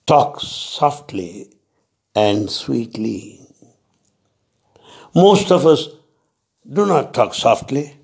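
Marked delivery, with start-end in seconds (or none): 0.1-3.4 slow, gentle quote of the master's advice; slow, tender reminder; soft and sweet. Retold or imitated. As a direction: ease the words out slowly and kindly. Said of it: "he said".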